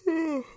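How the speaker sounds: long audible yawn mid-chat. Real, not acted. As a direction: let out a big tired yawn. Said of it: "I was yawning".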